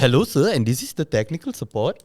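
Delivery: badly faked Indian accent; half-hearted fake Indian accent; made-up Indian accent. Shown as a demonstration. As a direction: try an Indian accent and miss. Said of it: "a very made up Indian accent".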